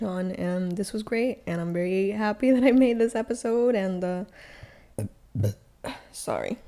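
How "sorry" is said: burping through the word; words pushed out on a burp; talking while burping. Real, not acted. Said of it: "I'm burping into the mic now".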